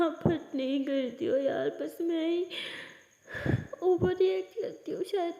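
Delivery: crying through the words; tearful confession. Acted. Maya crying as she confesses to Aliya. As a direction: speak while weeping into a hug.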